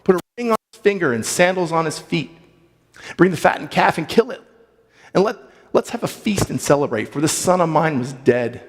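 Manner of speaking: measured Bible reading voice, pausing on the ending; scripture reading. Acted. Preacher reading scripture aloud to the congregation, measured and deliberate. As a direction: read the parable to the congregation.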